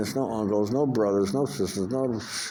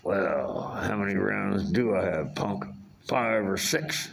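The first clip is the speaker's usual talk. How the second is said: lightly voiced tough gunslinger, unhurried; understated tough-guy movie impression; Clint Eastwood. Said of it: "That was my Clint Eastwood impression".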